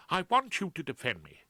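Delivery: high, fretful Claude voice; Claude, anxious. Acted. Claude frets to Rumpole, high and anxious. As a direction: voice a nervous barrister pleading.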